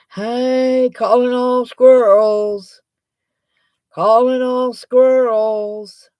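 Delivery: loud, slow, drawn-out call; hollering into the void for anyone; calling all squirrels like a town crier. Real, not acted. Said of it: "calling out for viewers".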